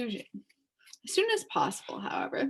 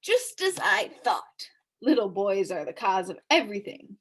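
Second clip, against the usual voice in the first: smug policeman. Acted.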